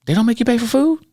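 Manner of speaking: put-on teasing a child with goofy over-the-top surprise; overly silly. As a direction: fake disbelief to make a sad girl laugh. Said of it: "I was kinda being overly silly with her".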